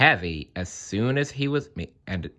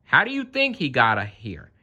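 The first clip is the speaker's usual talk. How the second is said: quick, high, cheeky question; fast high crow voice; 4 semitones higher than usual. Acted. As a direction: rattle it off like a wisecracking crow. Crow asking mockingly.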